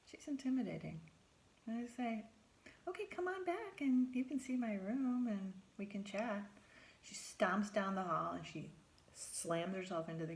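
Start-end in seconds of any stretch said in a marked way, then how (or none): 2.9-6.4 cheery invitation. Retold or imitated.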